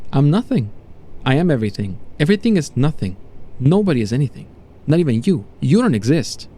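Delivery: lightly voiced mad revelation in short phrases; mildly raving subject. Subject to doctor after the revelation, mildly raving. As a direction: declare it with a touch of mania.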